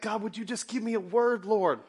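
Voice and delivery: high, loud pleading prayer. Retold or imitated. Preacher praying aloud for words to heal pain. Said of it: "I'm praying that".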